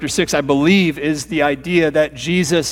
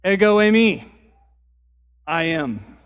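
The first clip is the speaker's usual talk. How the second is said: Jesus declaring. Retold or imitated. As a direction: proclaim ego eimi, then soften I am. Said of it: "he laughs says".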